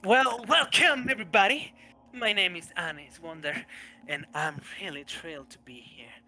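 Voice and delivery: showman greeting. Acted. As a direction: greet the room like a stage act. GM voices new character Anis.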